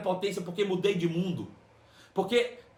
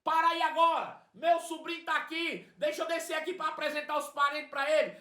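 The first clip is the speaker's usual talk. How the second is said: much higher, urgent calling; excited old aunt; 7 semitones higher than usual. Retold or imitated. Old aunt telling the bus driver to stop, high and urgent. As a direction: order the bus to stop, eagerly. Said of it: "Ele disse".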